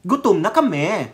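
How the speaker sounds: wavering sing-song imitation of protesters; mock protest shout. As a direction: plead mockingly, pitch swooping on each phrase. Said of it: "Tapos sisigaw kayo".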